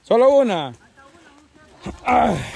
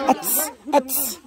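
short, sharp mimicked noise; softer, quick double burst in imitation; imitating Melissa; 7 dB quieter than usual. Showing how Melissa does it, imitated noise. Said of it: "Así le da la Melissa".

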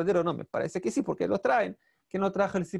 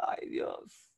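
mock wailing; 5 semitones higher than usual. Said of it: "Y lloró, lloró".

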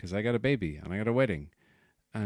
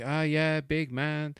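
put-on higher, jeering North Side Dublin accent; mocking North Side jibe; 8 semitones higher, slower than usual. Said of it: "she was doing it in that kind of way".

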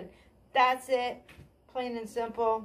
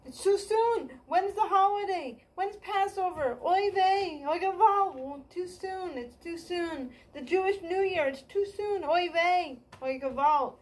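higher, lightly hammed-up Yiddish-flavoured kvetching; mock Jewish complaining; 6 semitones higher than usual. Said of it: "like, the Jews say".

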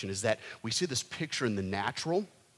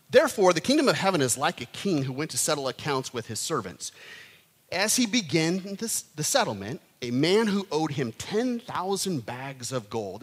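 measured scripture reading. Acted.

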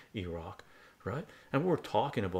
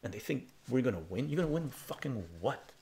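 retold angry reply; 4 semitones higher than usual. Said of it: "I go".

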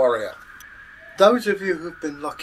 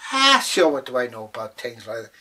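leprechaun playing dumb; 4 dB louder than usual. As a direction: rattle off a feigned innocence.

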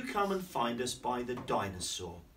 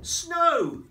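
high, loud cry; excited shout; 10 dB louder than usual. Acted. Flying babies spotting snow, excited high call. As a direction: call out with delight.

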